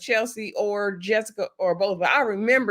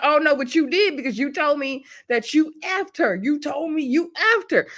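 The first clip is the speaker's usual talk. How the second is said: higher-pitched mock indignation; accusing retort; 5 semitones higher than usual. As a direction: imitate her insisting, pitched up. Acted accusation in a couple's quarrel.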